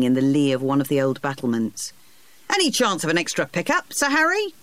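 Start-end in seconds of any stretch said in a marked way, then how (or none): 2.5-4.5 1 shouted call. A narrator's reading. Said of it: "one of them shouted".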